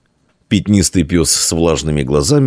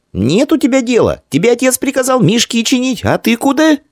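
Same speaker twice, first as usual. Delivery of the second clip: put-on girl's voice. A narrator's reading. Girl with geese questions Dian, high girlish voice. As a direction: pitch it up as an angry little girl.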